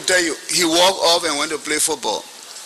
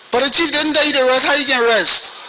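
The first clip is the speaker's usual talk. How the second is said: challenging retort; 8 semitones higher than usual. Retold or imitated. Archie Bernard challenges him.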